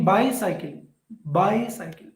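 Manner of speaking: "bicycle" with a long "bi"; strong "bi", weaker "cycle" in "bicycle"; stress on first syllable. Shown as a demonstration. Teacher demonstrating dactyl, "bicycle" stressed on "bi". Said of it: "bi is stressed and cycle is".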